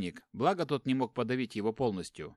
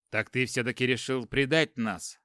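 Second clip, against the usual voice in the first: heating up; 3 dB louder than usual. Acted. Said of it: "Снова распаляясь, процедил воин".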